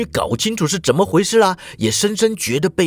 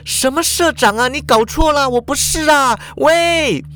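much higher, frantic denial; alarmed protest; 9 semitones higher than usual. A narrator's reading. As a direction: object in rising panic. Protesting as she is undressed. (惊慌地大声否认)

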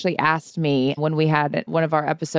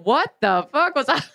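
laughing; 6 semitones higher than usual. Real, not acted. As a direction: laugh through the words.

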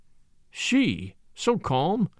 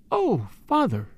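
higher, contained cry of despair; 5 semitones higher than usual. A narrator's reading. Daughter calling back her departing father, almost despairing. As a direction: call out to him, close to despair. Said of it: "almost a cry of despair".

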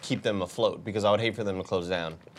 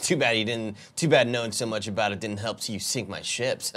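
overacted anime dub. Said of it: "do your, like, really mean anime character voice".

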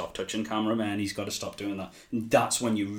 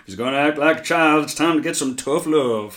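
retold threat; 4 semitones higher, 7 dB louder than usual. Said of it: "he's like".

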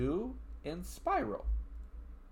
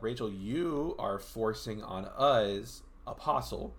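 slow, strained hoarse voice; losing voice; much slower than usual. Real, not acted. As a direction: voice giving out mid-sentence. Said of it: "I'm losing my, my voice".

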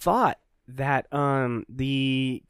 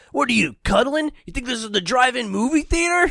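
Shredder heckling; 7 semitones higher than usual. Retold or imitated. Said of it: "He's like".

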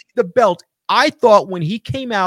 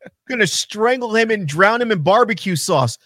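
normal talking voice

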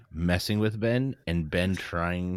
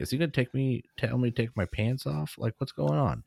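mock-worried, higher-pitched questioning; self-conscious; 4 semitones higher than usual. Patient wondering what the examiner wants, mock self-conscious. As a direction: play a mildly nervous patient's thoughts. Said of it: "I'm gonna get self-conscious".

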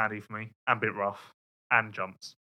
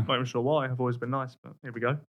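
mock emotional; 6 dB quieter than usual. Co-host on a British rider who hates him, mock emotional. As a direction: trail away softly as if a little wounded. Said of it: "Sorry, I was just a bit emotional".

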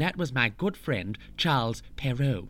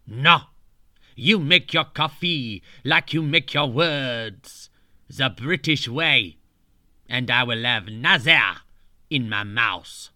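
grumpy Charles; 4 semitones lower than usual. Retold or imitated. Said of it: "Charles retorts rudely".

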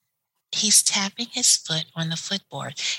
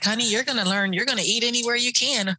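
knowing veteran nurse; 5 semitones higher, faster than usual. Retold or imitated. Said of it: "they're like".

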